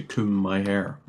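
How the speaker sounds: comb with a long "oo" vowel, silent b; comb said "coom". Shown as a demonstration. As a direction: say comb to rhyme with "room". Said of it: "no one ever says it's like".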